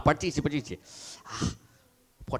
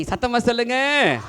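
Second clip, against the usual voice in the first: put-on higher call to the children, சொல்லுங்க falling; louder call; 6 semitones higher than usual. Shown as a demonstration. (உயர்ந்த குரலில் அழைப்பு)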